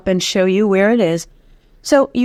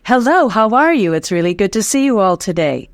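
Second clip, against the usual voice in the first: projected speech demo. Shown as a demonstration. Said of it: "it should stay out for the whole sentence like this".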